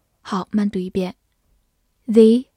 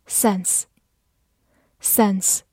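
slow word drill; 3 dB quieter, much slower than usual. Shown as a demonstration. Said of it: "teacher's review of vocabulary words".

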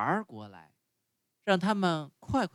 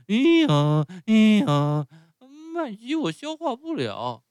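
loud, much higher pained wails of a whipped donkey; crying out in pain; 8 semitones higher, 9 dB louder than usual. Acted. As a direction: yelp out the pain after the whip. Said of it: "匹诺乔痛得大哭大叫". (挨了鞭子的匹诺乔尖声哭叫)

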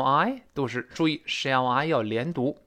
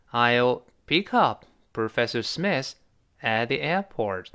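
slow model sentence; slower than usual. Shown as a demonstration. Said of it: "再来一遍".

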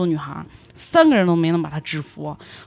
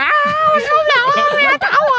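slow, much higher wailing shout; crying wail; 3 dB louder than usual. Retold or imitated. Sobbing to her friend after the beating, slow crying wail. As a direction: bawl it like you're breaking down. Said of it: "我就啊咧着嘴啊".

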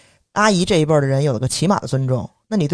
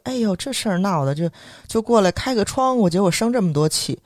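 higher-pitched imitation of a mildly fretting mother; mother's uneasy fretting; 6 semitones higher than usual. Mother to her angry child about the row, lightly imitated fretting. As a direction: voice a mum trying to smooth it over. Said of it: "就其实有点虚".

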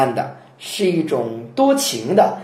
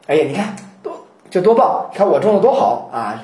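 proud farmer; 3 semitones higher than usual. Pretend. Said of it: "这种感觉".

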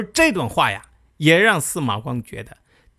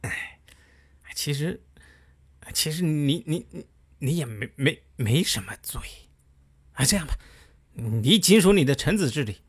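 half-hearted sorrowful backing down; mild mournful plea. Retold or imitated. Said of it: "凄凄哀哀地说".

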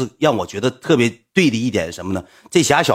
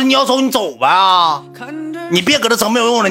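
angry; 11 semitones higher than usual. Retold or imitated. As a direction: spit it out in a rage. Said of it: "我就急眼了".

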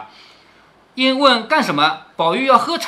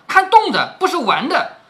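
laughing warning; 7 semitones higher, 3 dB louder than usual. A narrator's reading. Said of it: "宝玉笑着劝说".

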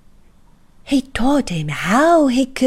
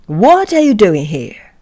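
louder, surprised grown-up voice; Mister Robinson's voice; 8 dB louder than usual. A narrator's reading. Mister Robinson spotting the tiny man, loud. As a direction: boom out a surprised hello.

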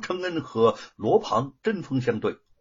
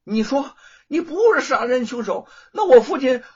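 much louder, high, gloating; smug challenge; 7 semitones higher, 11 dB louder than usual. A narrator's reading. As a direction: taunt him with the proof. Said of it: "罗庞得意地转向吴承恩".

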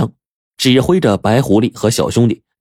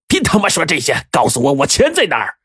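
higher, impatient angry questioning; moderately raised angry voice; loud demand; 7 semitones higher than usual. A narrator's reading. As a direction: cut him off and demand an answer. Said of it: "大声地说".

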